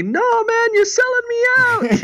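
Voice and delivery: high, pinched voice of a wronged buddy; mock pleading guy. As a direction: squeak it out like he feels betrayed. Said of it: "he's just telling me".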